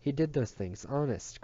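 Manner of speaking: high, earnest cry; little boy's cry. A narrator's reading. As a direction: plead it like a little boy. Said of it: "cried the little boy".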